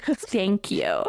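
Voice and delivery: high shrieking laughter; laughing. Real, not acted. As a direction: crack up completely. Rereading, cracking up.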